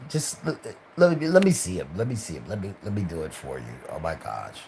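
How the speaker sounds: fussy supervisor. Retold or imitated. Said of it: "he talked like this".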